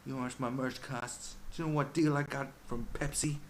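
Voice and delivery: mock rapper bragging about money. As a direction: show off like a rapper in an interview. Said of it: "If you watch any interview going".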